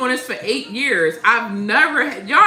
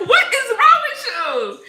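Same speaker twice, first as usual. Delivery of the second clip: much higher, slowed disbelieving question with a laugh; incredulous; 12 semitones higher, 5 dB louder than usual. Retold or imitated. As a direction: drag out the disbelief. Boyfriend asks again.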